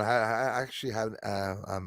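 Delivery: stuttering. Answering an unexpected good question in conversation, stuttering. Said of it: "I'm stuttering".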